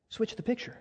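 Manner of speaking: brother's words echoed. Retold or imitated. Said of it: "That's what he told me".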